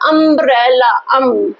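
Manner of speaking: अम्ब्रेला drawn out, then its first sound अम alone; sounded out umbrella. Shown as a demonstration. Teacher asks which sound comes first, अम्ब्रेला sounded out to show the opening vowel. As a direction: stretch अम्ब्रेला by syllables, then isolate अम. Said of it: "pronounce करने पर".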